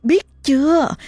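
high, eerie demon voice mocking the mother; the possessing spirit sneers through the boy; possessed child. Spirit taunting the terrified mother, eerie high voice.

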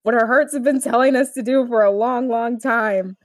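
Aang, would-be suave. Retold or imitated. Answering Katara as awkward Aang, hammed-up romance. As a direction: play an awkward boy trying to be suave. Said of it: "Not nearly as suave as Aang's thinking he is".

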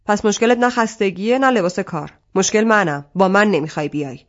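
loud, hurt accusation; angry outburst. Acted. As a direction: throw the blame at her. Arsalan bursts out hurt, angry.

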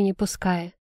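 ordinary delivery

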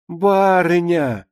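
drawn-out call to the mistress; maid's lingering summons. Acted. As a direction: call the lady of the house, stretching the word. Maid calls her mistress.

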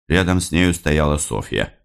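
usual speaking voice

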